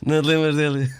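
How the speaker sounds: lightly voiced drawling Big Brother guy; Zé Maria impression. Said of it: "ele falava assim".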